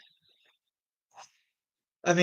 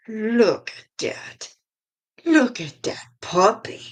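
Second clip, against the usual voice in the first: drawn-out, higher-pitched cooing; cooing over a puppy; 6 semitones higher, slower than usual. Real, not acted. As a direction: coo it slowly, as to a puppy.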